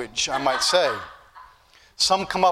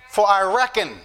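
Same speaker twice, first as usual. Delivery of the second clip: Southern reckon. Shown as a demonstration. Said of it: "there's Southern speech in the Bible".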